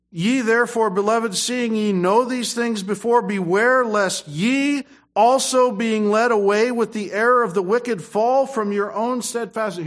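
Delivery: scripture reading. Acted. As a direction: proclaim the verse to the congregation. Reads scripture in preaching.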